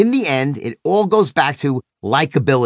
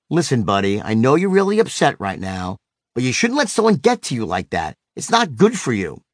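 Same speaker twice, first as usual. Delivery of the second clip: slightly lowered, soothing dad voice; dropped sympathetic tone; 3 semitones lower than usual. Retold or imitated. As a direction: gently talk an upset child down, pitch dropped. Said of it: "I didn't drop my tone and say".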